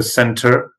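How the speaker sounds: American "centre" with an R-coloured ending; American accent. Shown as a demonstration. Teacher comparing England and America, American accent. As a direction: sound the final R of "centre", American style. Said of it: "you have in America".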